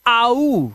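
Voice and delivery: "आऊ" drawn out as a gliding ow; pronunciation demo. Shown as a demonstration. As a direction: stretch "आऊ" from open aa to oo. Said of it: "ओयू का जो उच्चारण है".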